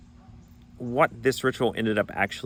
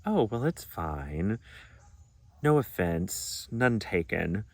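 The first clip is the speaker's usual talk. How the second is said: overbearing reassurance; slower than usual. Retold or imitated. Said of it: "smothering feeling".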